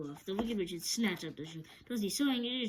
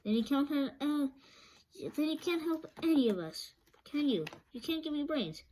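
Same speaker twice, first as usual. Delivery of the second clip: Scarecrow voice; 7 semitones higher than usual. A narrator's reading. Scarecrow laments.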